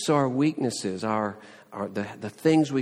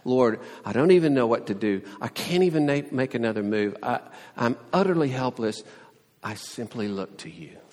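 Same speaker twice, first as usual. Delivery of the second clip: humble prayer; faster than usual. Retold or imitated. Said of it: "So let's be like Jehoshaphat".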